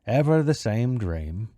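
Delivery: slow, sighing character voice; Kroop. Acted. Small round man sighing over his dream, slow lament. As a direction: lament it slowly, theatrically. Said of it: "he sighed".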